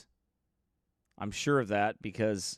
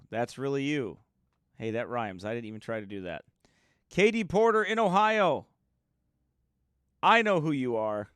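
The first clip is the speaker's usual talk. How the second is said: ordinary talk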